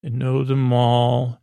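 slow retold line, drawn out; pointed, knowing. Quoting Boothby's line that stops Picard, knowing and slow. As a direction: repeat it slowly and deliberately. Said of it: "with the way he says it".

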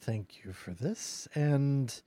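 slow, measured phoenix voice, lightly voiced; unhurried, solemn thanks from a great bird; grateful phoenix. Phoenix thanking the party for calming it, slow and grave.

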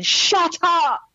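audience shushing. Retold or imitated. Retelling the audience hushing him, mock annoyed crowd shout. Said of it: "the whole auditorium going".

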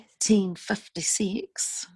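put-on whispered words sliding from Scottish into a Kiwi accent. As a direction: start Scottish, drift into a New Zealand accent. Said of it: "started with a Scottish, ended with a Kiwi accent".

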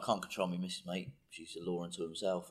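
a light Cockney footballer voice; a hint of a Cockney player saying this. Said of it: "Why have you gone all Cockney?".

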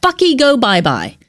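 squeaky goofy toon delivery; cartoon voice. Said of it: "using a cartoon voice".

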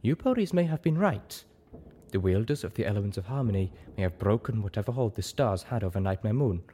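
lightly voiced zebra, measured and careful; a hint of a solemn zebra mentor; conceding zebra sage. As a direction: concede the point thoughtfully, in character.

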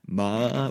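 "ma" split by a catch in the middle; broken tone. Shown as a demonstration. Showing the Vietnamese word for horse, "ma" broken mid-vowel. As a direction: pause briefly inside "ma", then finish it. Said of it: "pause in the middle".

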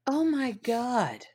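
a real gasp of disbelief at his words; stunned. Real, not acted. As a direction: let it stretch out in shock. Shocked reaction to Ed quote.

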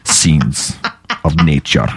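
hammed-up Soviet chairman, Russian accent. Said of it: "Chairman is like".

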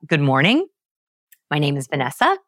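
MORNING and VANESSA both rising like questions; question inflection. Retold or imitated. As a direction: uptalk at the end of each phrase, on MORNING and VANESSA. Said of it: "women accidentally use the question inflection".

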